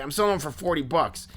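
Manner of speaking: lightly imitated in-your-face collector; intense Philly dude. Obsessed fan listing his groups, lightly voiced Philly dude. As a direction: rattle off boasts as a Philly guy. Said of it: "the impression that I was doing of him".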